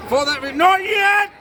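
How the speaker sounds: high loud not yet; sharp interruption. Acted. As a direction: cut them off sharply. Stopping soldiers too early.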